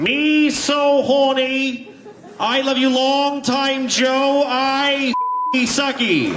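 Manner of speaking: JFK as prostitute. Pretend. JFK playing a Saigon prostitute, slow high hammed accent. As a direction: drawl it slowly, high and hammy. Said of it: "John F. Kennedy is a prostitute in Saigon".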